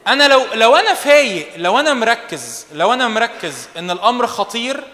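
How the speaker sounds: slow, weighty stress on أنا; emphatic preaching. Real, not acted. Preacher warns the youth, slow and emphatic. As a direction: lean hard on each أنا, slowly.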